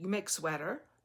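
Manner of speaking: put-on thick Russian accent. Retelling what a russian lady asked about knitting: imitating a thick russian accent. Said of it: "had a very thick accent".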